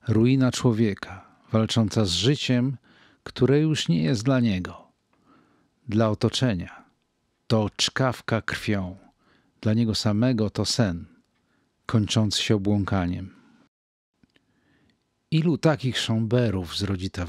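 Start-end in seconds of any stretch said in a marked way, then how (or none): none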